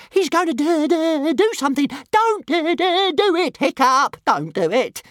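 loud, high stuttering dragon squeal. A narrator's reading. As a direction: stammer shrilly in alarm, squealing. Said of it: "squealed Toothless".

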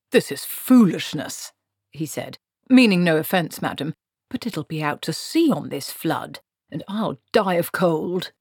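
lightly voiced protesting wizard; a hint of a put-upon wizard; grumbling wizard. Wizard protesting to Granny about the flood, grumbling lightly.

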